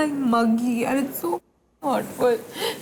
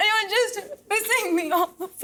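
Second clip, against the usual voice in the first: crying; 5 semitones higher, much slower than usual. Real, not acted. Heated fight with partner on camera.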